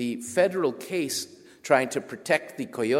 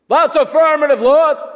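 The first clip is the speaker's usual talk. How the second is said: much higher, louder barked military reply; Marine drill instructor; 15 dB louder than usual. Retold or imitated. Marine agent barking at the nervous writer, drill-instructor voice. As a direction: bark it like a drill sergeant. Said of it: "Like that".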